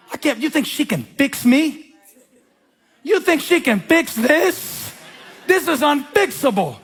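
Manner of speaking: high, slow, pleading despair; despairing spouse. Retold or imitated. Pastor voicing a hopeless spouse, high pleading despair. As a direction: whine it out like a hopeless wife. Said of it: "despairing spouse voiced in sermon".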